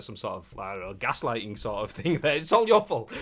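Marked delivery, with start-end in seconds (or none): 2.4-3.1 loud, high mock accusation; mock blaming. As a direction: throw the blame at them, hammed-up. Mock example of blaming gaslighter.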